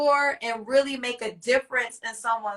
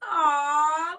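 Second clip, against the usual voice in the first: teary; 3 semitones higher than usual. Real, not acted. Host seeing the guest's baby daughter, teary and touched.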